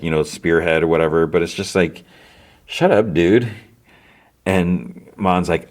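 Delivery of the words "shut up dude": fed-up, punchy outburst at a character; exasperated, raised pitch, tired of this guy; annoyed. Real, not acted. Host fed up with Luthen the big rebel, annoyed. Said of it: "really getting kind of annoyed".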